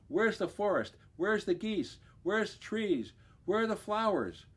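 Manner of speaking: high, rising alarm at each question; a lost bear searching wildly; bewildered. Acted.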